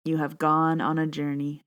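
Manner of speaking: fighting back tears as she begins; first line cut short by emotion; choking up. Real, not acted. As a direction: voice catching on tears. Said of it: "Can't even say the first line".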